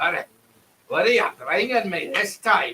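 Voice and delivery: rough, gruff character voice. Storyteller voices a character heard among the forges, gruff voice. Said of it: "Until you hear a gruff voice".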